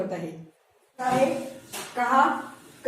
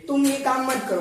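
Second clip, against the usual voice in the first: mild command. Shown as a demonstration. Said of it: "तो ये हो गया आज्ञा".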